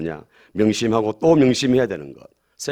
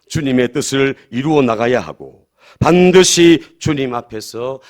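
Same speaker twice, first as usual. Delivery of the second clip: loud, slow, weighty exhortation; forceful preaching; 9 dB louder, slower than usual. Real, not acted. Pastor urges congregation to remember the reckoning, forceful preaching. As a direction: drive each phrase home, drawn out and loud.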